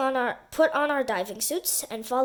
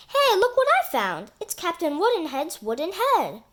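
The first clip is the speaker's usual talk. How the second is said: excited discovery; 4 semitones higher than usual. Acted. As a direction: call out a surprising find. Andy finds the wooden head.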